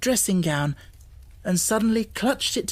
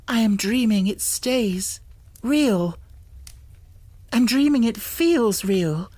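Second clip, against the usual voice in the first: high, louder, breathless disbelief; half-laughing at a spell; excited wonder; 5 semitones higher, 3 dB louder than usual. A narrator's reading. Girl disbelieving the magic room, high and excited.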